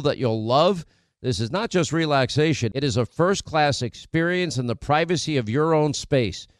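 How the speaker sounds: upbeat host-read commercial pitch. Acted. Host pitching sponsors to listeners, upbeat ad read. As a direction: sell it like a radio spot.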